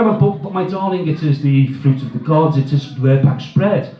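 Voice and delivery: advert voice. Acted. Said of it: "all the old fucking advert type jokes".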